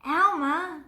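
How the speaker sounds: high, loud exclamation of the name; surprised call. A narrator's reading. Elephants discovering Elmer laughing, loud surprised call. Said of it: "they said".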